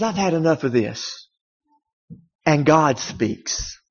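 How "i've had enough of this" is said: God fed up. Retold or imitated. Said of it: "it's almost as if God says".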